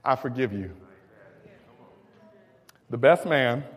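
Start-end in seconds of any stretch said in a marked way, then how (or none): 0.0-0.7 Joseph softly calming his brothers; reassuring. Retold or imitated. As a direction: ease down into gentle, unhurried forgiveness.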